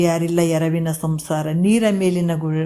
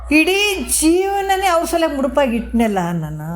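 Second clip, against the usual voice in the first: high-pitched acted anguish, gradually falling; hurt lament; 9 semitones higher than usual. Husband realises family won't die for him, acted hurt lament. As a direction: imitate a man wounded by betrayal. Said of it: "ಭಾಳಷ್ಟು ನೊಂದ್ಕೊಂಡ".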